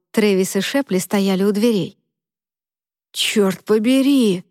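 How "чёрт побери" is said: slow, drawn-out astonished curse; stunned. Acted. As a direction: let it out slowly, stunned. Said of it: "разинул рот Трэвис". (ошеломлённо, медленно)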